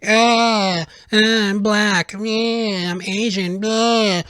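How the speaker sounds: high, mocking whiny complainer. Mocking people who complain about their identity, whiny voice. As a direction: sneer it out like a self-pitying victim.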